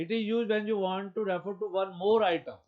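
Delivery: emphatic slow read-out; slow dictation reading. Shown as a demonstration. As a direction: read it out for students to copy. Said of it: "एक example देखते हैं".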